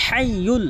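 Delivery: হাইয়ুল with a breathy ha from mid-throat; correct pronunciation. Shown as a demonstration. Teacher demonstrating হাইয়ুল for viewers to copy. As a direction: push the ha of হাইয়ুল from the middle of the throat. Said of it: "এখানে হাইয়ুল এভাবে উচ্চারণ করতে হবে".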